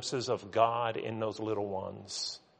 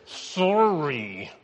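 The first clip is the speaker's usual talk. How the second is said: insincere sorry through gritted teeth; grudging apology; 4 semitones higher than usual. Acted. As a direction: force out the apology with no feeling. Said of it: "just like gritted teeth".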